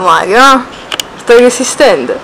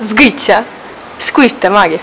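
ordinary talk, nothing marked

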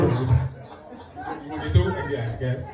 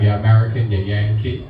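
Caribbean person teasing; 5 semitones lower than usual. Retold or imitated. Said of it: "Caribbean person, like".

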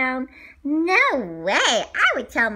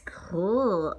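whisper; 6 semitones lower than usual. Acted. Quiet aside during play.

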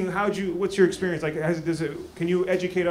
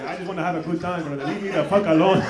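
Benga imitation in accent. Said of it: "so you don't trust nobody".

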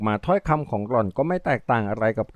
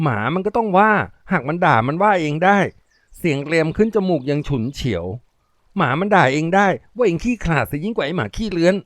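nasal, irritable; 5 semitones higher than usual. Acted.

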